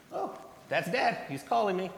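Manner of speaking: lightly voicing a child who hears dad. Child hearing dad call her name, high delighted voice.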